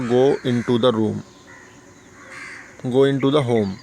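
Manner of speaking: each word spelled out slowly; slow teacher's model of "Go into the room"; slow, careful model sentence. Shown as a demonstration. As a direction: dictate it slowly to the class. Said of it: "मैं क्या बोलूँगा?".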